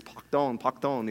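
"Pardon" said the French way, pahr-DOHN, soft nasal end; child saying "pardon" in French, quietly; imitating a child's French "pardon". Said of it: "in French, he says".

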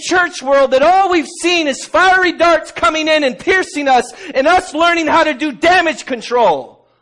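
full-voiced pulpit cry; fiery preaching. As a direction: thunder it at the congregation.

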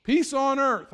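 a light, high hint of Linus reading. Pastor mimicking Linus reading Christmas line, lightly high. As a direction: lift it like a child reciting. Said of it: "I've heard Linus read it".

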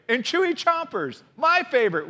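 put-on high-pitched wheedling kid voice; whining little brother. A narrator's reading. Brother cub chiming in to Mama about candy, whiny. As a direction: whine it like a cub begging for candy. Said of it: "whined brother".

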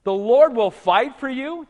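"The Lord will fight for you?" slow with a rising question tune; astonished repeat; incredulous question. Shown as a demonstration. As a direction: ask it back in mock disbelief. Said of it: "Wait a minute".

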